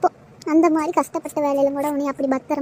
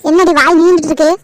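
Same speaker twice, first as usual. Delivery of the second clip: angry scolding; 6 dB louder than usual. Acted. Mother scolds daughter-in-law.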